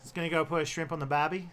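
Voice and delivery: Australian accent slipping into US Southern; rough try at an Aussie accent; Southern-tinged Australian. Shown as a demonstration. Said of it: "It's too southern U S".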